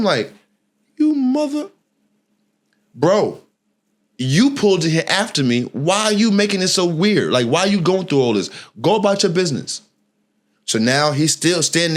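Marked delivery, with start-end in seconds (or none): 1.0-1.7 cut-off curse. Retold or imitated. Nearly cursing out the driver. 2.9-9.8 irritated retort. Retold or imitated. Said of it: "even more aggravated".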